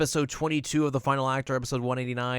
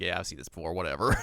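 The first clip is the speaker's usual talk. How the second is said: bored shrug; 4 semitones lower, faster than usual. Retold or imitated. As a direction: toss it off like old news. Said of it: "And Moroku's like".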